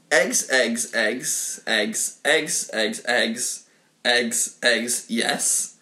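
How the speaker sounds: measured, repetitive chant with each word set apart; mock poetry recital. Host reading his unfinished egg sonnet to friends, mock recital. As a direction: recite it like a solemn nonsense poem.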